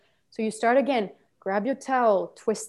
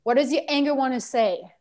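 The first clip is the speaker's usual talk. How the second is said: raised, pressing question; coaching prompt; 2 semitones higher, 6 dB louder than usual. Shown as a demonstration. Trainer showing coach what to ask, pressing voice. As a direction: demand the words from the anger. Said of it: "and you can say".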